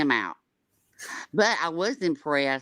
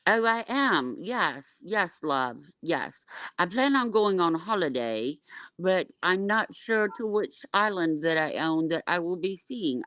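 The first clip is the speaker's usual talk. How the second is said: pretend a singer; 3 semitones higher, 3 dB louder than usual. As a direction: play a singer bragging, slightly raised voice. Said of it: "she never sleeps".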